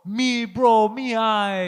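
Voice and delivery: lightly imitating a friend getting angry; mild mock anger; mock angry talk. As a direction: mimic his worked-up manner. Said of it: "when you get angry, that's how you talk".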